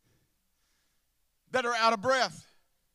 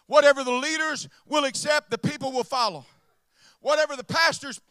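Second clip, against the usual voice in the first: louder preaching shout on whatever; preached shout; 8 dB louder than usual. Shown as a demonstration. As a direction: hammer it home to the congregation. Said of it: "Let me help you with that".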